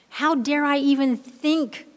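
how driven high and loud; emphatic repeat. Acted. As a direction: push harder on the repeat. Repeats the question with more force.

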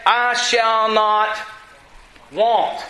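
"I shall not" stretched very slowly, then "want"; slow recitation. Shown as a demonstration. Preacher quoting David's psalm, slow and deliberate. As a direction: pause before the last word. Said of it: "What does he say?".

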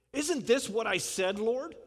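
a touch of sulky indignation, voice lifted; mock complaint to God, lightly voiced; indignant Jonah. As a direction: Jonah griping to God with a mild huffy lift. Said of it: "I'm putting a little inflection on it".

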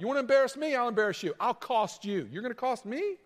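rising, heated mock threats; vindictive retort. Preacher voicing a spiteful litigant, mock indignant. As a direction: puff up and threaten to countersue. Preacher acts out a vengeful reaction.

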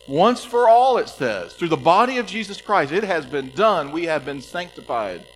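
high and loud, ringing out; loud preaching. Real, not acted. Preacher declaring the finished work to the church, loud.

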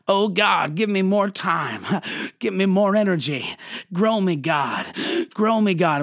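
lightly hammed-up preacher's plea; mock grand prayer. Pastor mocking believers' showy prayers, lightly hammed-up. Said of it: "in our best T D Jakes voice".

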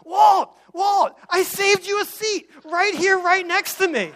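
high, eager calling out to a friend; eager seatmate. Retold or imitated. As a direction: play the overeager guy waving him over. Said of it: "gentleman is there being like".

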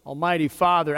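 usual speaking voice

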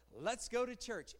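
let's go to church as an invitation with some lift on go; eager invitation. Shown as a demonstration. Preacher contrasting an eager invitation with the dull phrase. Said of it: "is there the same anticipation".

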